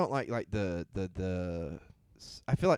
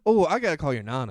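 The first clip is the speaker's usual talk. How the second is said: really excited, higher and louder outburst; 3 semitones higher, 6 dB louder than usual. Real, not acted. Remembers to call friend's nana mid-conversation, excited. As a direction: burst in louder, suddenly excited. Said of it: "I got all excited".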